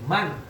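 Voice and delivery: "Man" with a plainly sounded final n; clear nun. Shown as a demonstration. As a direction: finish "Man" on a distinct n. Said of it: "Dibaca jelas nunnya".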